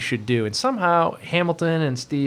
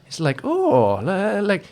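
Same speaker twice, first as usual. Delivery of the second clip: put-on high, eager boyish voice; Butchie excited; 6 semitones higher, much slower than usual. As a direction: gush like a kid at a new menu. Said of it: "Butchie's like".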